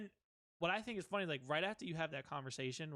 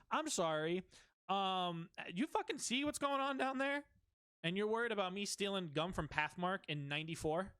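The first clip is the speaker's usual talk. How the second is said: indignant protest; 5 semitones higher, 3 dB louder than usual. Retold or imitated. Arguing his case at heaven's office.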